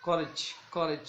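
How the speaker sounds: करेज slowly, weight on the first syllable; stress on first syllable. Shown as a demonstration. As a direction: lean on the opening syllable of करेज. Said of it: "करेज में कोर".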